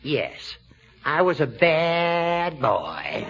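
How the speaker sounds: sheepish. Acted. Judge caught, sheepish confession.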